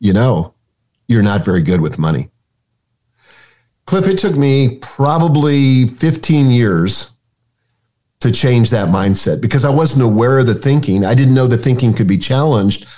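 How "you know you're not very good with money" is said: put-on whispering voice. Retelling what an inner narrator kept saying about money: imitating a whispering inner voice. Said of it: "the narrator would whisper to me".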